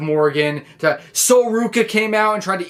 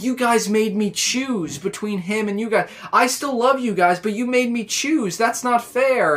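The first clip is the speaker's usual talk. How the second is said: higher-pitched mock pleading; imitated plea, pitched up; retold pleading protest; 4 semitones higher than usual. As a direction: protest as the hurt party in a retelling. Retelling wrestler's pleading quarrel.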